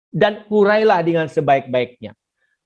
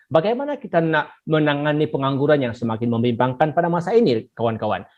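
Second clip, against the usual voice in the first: lightly voiced moderator, quick then settling; 5 semitones lower than usual. Shown as a demonstration. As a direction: play the student moderator opening round two. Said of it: "moderator akan cakap begini".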